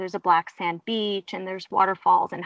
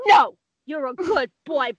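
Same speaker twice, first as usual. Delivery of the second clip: imitating a firm but cooing scold; pitched up, animal-lover scolding; retold talking-to for a naughty pet; coaxing horse talk; 5 semitones higher, 4 dB louder than usual.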